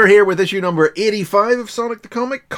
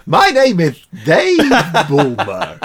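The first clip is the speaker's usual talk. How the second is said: mock gravelly voice; 5 dB louder, slower than usual. Mock self-introduction in a funny voice.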